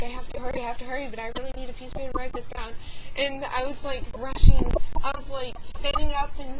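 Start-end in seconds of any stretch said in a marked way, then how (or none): 0.0-2.7 hurried, mildly panicky recounting; retold freaking out. Recalling a hunt for paper, mildly frantic. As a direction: rattle it off as if in a rush. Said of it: "I was kind of freaking out".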